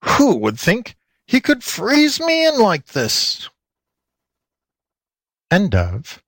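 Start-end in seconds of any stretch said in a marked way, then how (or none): 0.0-3.5 high, slow wailing fox; caged fox howling at being frozen in; trapped fox wail. A narrator's reading. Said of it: "howled the fox".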